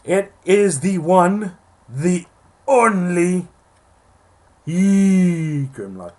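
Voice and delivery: talking around a cough drop; cough drop in mouth. Real, not acted. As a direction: lozenge in the cheek. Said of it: "I got a cough drop in my mouth and my throat hurts".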